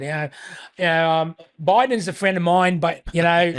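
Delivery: put-on John Howard's Australian accent, casually done; casual Aussie impersonation of a former prime minister. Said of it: "props for the Australian accent".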